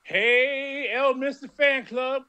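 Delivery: high, drawn-out call to a crowd; pretend yell. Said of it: "go outside and yell".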